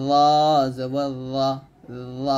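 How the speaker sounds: thick, full "ল জবর ল"; heavy letter demo. Shown as a demonstration. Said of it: "উচ্চারণ করার সময় একটু মোটা করবেন". (মোটা করে "ল জবর ল")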